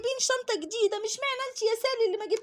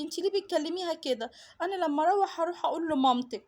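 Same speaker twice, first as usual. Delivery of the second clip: put-on scolding little girl; 7 semitones lower than usual. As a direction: tell her off like a bossy little classmate.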